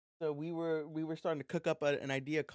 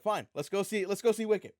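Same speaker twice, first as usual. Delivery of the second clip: exasperated giving in; 6 semitones higher, 5 dB louder than usual. Retold or imitated. Retold argument, giving in.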